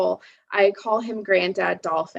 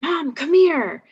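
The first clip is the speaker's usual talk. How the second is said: put-on high, slow child's call, getting louder on "come here"; imitating a little kid calling out at night; child calling mom; 8 semitones higher, 3 dB louder, slower than usual. Narrator imitating her child self calling mom at night, high and drawn out. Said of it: "calling her in the middle of the night".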